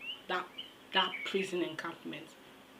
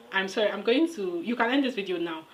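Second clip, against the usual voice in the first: excited; 6 dB louder than usual. Real, not acted. Laughing apology, loud.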